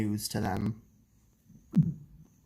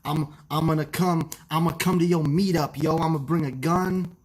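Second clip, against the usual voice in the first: Joseph Martelli impression; 4 semitones higher, 4 dB louder than usual. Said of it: "How do you do a Joseph Martelli impression?".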